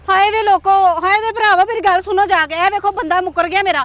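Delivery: woman raising the alarm about the man who denies her; wailing to the crowd. Acted. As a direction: cry out to gather the whole village. Woman wails to gather villagers.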